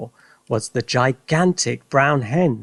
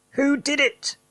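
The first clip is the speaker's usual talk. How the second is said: excited question; 13 semitones higher than usual. Acted. Father asking eagerly.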